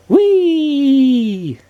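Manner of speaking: loud, high whoop of joy; two friends whooping down the hill on a toboggan; gleeful shout. Acted. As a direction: shout it sliding downhill. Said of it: "they shouted together".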